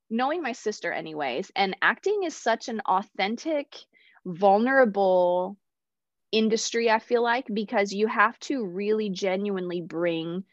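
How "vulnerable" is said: a hushed, slow vulnerable; whispered word. Real, not acted. Stressing how raw acting feels.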